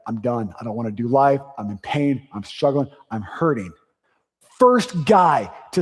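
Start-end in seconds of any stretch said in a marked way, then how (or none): 0.1-3.7 lightly voiced hurting man. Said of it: "This guy was like".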